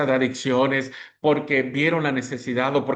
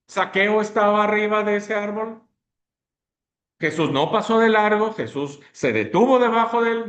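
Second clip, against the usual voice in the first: rising preacher's fervor, pitched up; fervent preaching; 6 semitones higher than usual. Acted. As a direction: drive it home like a pulpit call. Preaching at full force.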